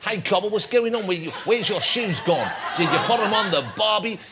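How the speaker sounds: lightly put-on heckler voice; heckler character. Host plays a heckler at the comedian, mock heckling. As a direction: play a teasing heckler, drawing words out. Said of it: "this character, he's inhabiting me now".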